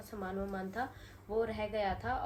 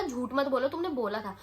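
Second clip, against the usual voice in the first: louder, sharp rebuke; angry retort; 3 semitones higher, 4 dB louder than usual. Retold or imitated. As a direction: shut down his denial firmly. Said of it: "गुस्सा आ गया था". (ज़ोर से, गुस्से में डाँटना)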